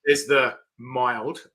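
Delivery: mild slowed and leaned on, ironic; joking that the mild jerky is anything but; stress on mild. Real, not acted. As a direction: drag out the word mild to hint it isn't. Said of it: "I'm, I'm saying mild".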